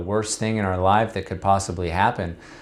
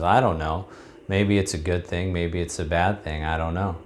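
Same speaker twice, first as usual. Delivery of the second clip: put-on calm wise old man; 3 semitones lower, 4 dB quieter than usual. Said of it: "shrugs his shoulders calmly and says".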